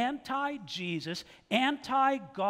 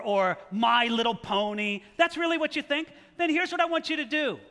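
taunting challenge. Real, not acted. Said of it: "the second reaction I had".

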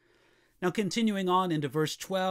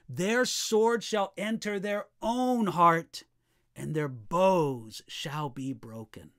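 scripture reading; slower than usual. Acted. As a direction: let the verdict of the verse sink in slowly. Rereads verse fifteen slowly.

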